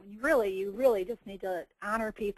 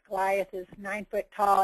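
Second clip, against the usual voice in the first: ordinary talk, nothing marked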